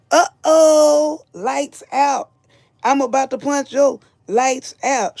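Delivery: mock threatening voice. Playing a threatening cast member.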